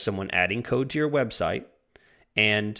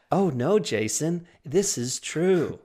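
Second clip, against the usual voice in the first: bad acting; 6 semitones higher, slower than usual. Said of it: "I'm a horrible actor".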